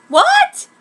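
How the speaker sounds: very high, loud squeak; shocked. Acted. Sakura stunned to hear she is special. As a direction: gasp it out in disbelief.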